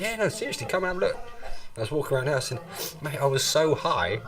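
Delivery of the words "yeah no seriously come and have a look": stoned self, insistent. Retold or imitated. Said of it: "I was like".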